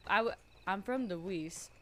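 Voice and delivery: "I'm from the West." with a light Western lilt, "West" like "wis"; Western accent. Shown as a demonstration. Introducing her character in a Western accent. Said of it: "sounds like a different accent".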